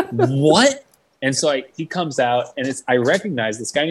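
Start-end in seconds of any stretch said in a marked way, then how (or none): 0.1-0.8 high, drawn-out incredulous cry; retold astonishment, pitched up; stunned disbelief. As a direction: act out being floored by news. Acted disbelief at good news.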